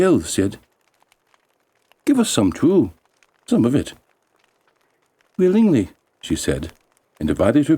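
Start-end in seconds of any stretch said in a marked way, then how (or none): 2.1-3.9 high little elf voices; lightly voiced elves asking; elves begging. 5.4-5.9 put-on high bright girl voice; a young girl gladly agreeing, much higher; girl's eager yes. Girl answers elves kindly.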